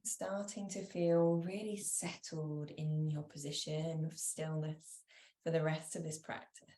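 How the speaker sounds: calm yoga nidra voice with long pauses; guided meditation. Real, not acted. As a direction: give each instruction gently, then leave space.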